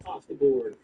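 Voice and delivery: loud, urgent game-master yell; shouted warning from a fleeing figure. Acted. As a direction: call it out forcefully. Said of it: "it's yelling".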